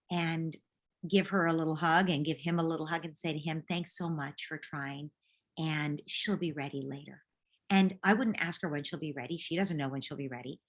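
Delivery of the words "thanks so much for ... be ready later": slow, quiet, tender praise; gentle slow mom voice; soft thanks to son. Retold or imitated. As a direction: soothe the boy softly.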